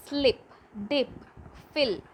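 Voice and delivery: "slip, dip, fill" with quick short ih; each word said singly, brief "ih". Shown as a demonstration. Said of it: "Next, only short E".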